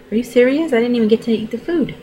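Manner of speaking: high, indignant disbelief at waking up; mock outrage at the lost dessert; disbelieving. To herself on waking from the dream, indignant disbelief.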